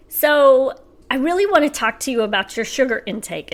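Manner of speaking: mock-earnest mom lecture, a little high; lightly put-on lecturing mom voice; son imitating mom. Teen son playing mom to the family, mock lecturing. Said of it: "as he's acting like me".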